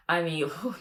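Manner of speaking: whispered laugh and exhale; breathless laugh. Real, not acted. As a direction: laugh it off under your breath. Laughing at the show.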